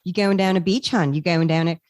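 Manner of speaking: light Delmarva accent, a diphthong in the O's; lightly voiced Delmarva accent, Southern meets Philly. Shown as a demonstration. Showing the host her old Delmarva accent, lightly voiced. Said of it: "I had a pretty good Delmarva accent".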